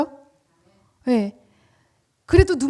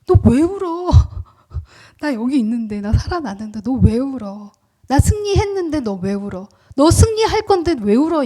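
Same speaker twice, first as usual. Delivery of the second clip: risen Jesus asking. Acted. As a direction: tease the weeper out of tears. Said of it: "울지 말라". (부활하신 예수님이 웃으며 묻는 목소리)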